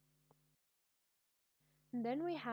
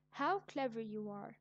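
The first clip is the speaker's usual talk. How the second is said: strong feeling; 5 dB louder than usual. Shown as a demonstration. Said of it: "It shows strong feeling".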